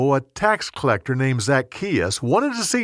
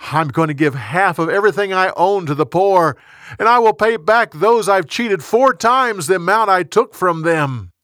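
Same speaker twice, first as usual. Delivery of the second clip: higher, louder, earnest promise; eager vow; 6 semitones higher, 4 dB louder than usual. A narrator's reading. Zacchaeus promises to repay those he cheated, eager and emphatic. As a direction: pledge it eagerly with rising energy.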